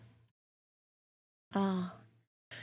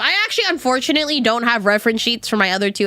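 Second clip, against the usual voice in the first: rapid nonstop chatter; faster than usual. Real, not acted. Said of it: "I've been yapping too much".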